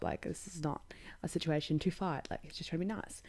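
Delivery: hushed whisper to herself; half-whispered aside, keeping it down. Real, not acted. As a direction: drop to a secretive whisper. Aside muttered about the beard kiss.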